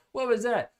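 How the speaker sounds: high, laughing surprise at his own voice; laughing at himself. Real, not acted. Reviewer cracking up at his own accent slip. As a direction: laugh it off, amused. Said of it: "Slipped into my British accent".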